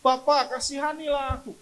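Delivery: loud, high appeal; crying out. Shown as a demonstration. Child of God calls to the Father, crying out. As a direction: call out to a father for mercy. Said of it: "Teriak saja kepada Tuhan Yesus".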